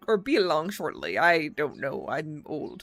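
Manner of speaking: put-on old man, voice trembling slightly. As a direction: hold back tears with a forced smile. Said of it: "His voice trembles slightly".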